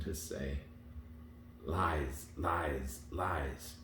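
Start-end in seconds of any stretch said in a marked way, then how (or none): 1.6-3.8 hoarse voice. A narrator's reading. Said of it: "a hoarse, indistinct voice".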